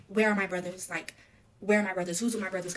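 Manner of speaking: loud, desperate repeated question; retold panicked shout in handcuffs; frantic calling out. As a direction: call out for the brothers in alarm. Handcuffed, calling for her brothers.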